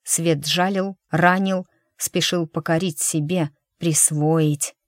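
ordinary delivery, nothing marked

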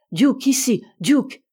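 loud call after a runaway dog. A narrator's reading. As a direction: call out sharply to bring the dog back. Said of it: "fit le docteur".

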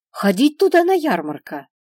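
put-on high, loud excited childish call; eager little girl. A narrator's reading. Girl eagerly proposes the fair.

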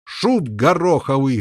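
slow, gruff barked insult. Acted. Fat knight barking at Lancelot. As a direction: bark it out with contempt. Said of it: "рявкнул толстый рыцарь".

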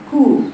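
كو with barely rounded lips; lazy damma. Shown as a demonstration. Teacher imitates a careless damma. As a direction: say كو lazily. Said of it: "البعض يقرأ هكذا".

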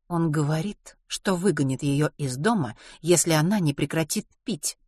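mildly detached, even statement; calm, cool tone. Acted. Gloria reports Len's threat about drinking, calm and cool. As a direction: report it without raising your voice. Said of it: "проговорила Глория таким же спокойным тоном".

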